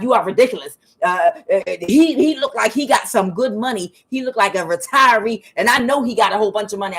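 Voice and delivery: retold irritated outburst; angry friend. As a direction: argue like an exasperated friend. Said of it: "she's just getting all angry and cussing".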